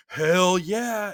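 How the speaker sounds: high, loud hell yeah; enthusiastic yes. Retold or imitated. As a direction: fire it back like a pumped-up soldier. Sully agrees to the flag.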